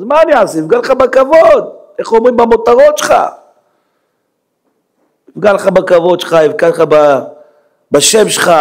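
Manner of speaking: high-pitched, exasperated preacher's outburst; God exclaiming. Acted. God bargaining with a sinner over his honour, exclaiming. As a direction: plead God's case, climbing to a high cry. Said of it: "אומר השם".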